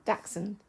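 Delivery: Dachshund said as DAK-sun; demonstrated pronunciation. Shown as a demonstration. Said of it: "You pronounce it".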